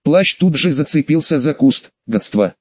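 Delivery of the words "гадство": low growling curse; growled curse. A narrator's reading. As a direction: growl it under the breath. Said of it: "рыкнул вампир".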